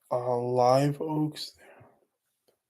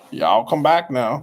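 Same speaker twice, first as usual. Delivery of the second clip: mock southern drawl; 4 dB louder, slower than usual. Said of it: "Y'all's pretty big down here".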